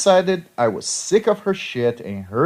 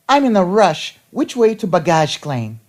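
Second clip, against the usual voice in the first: higher, louder voice of a harried stranger; put-on hurried voice, pitched up; rushed traveler; 5 semitones higher, 4 dB louder than usual. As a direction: act out an impatient passenger demanding directions. Rushed traveler demands directions.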